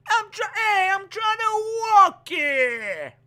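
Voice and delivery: put-on very slow, high drawn-out Texas accent. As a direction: stretch it out in a jokey Texas accent. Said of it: "That's my Texas accent".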